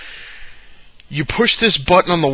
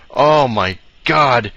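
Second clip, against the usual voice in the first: awed; 4 dB louder, much slower than usual. Real, not acted. Recalling a cool gadget.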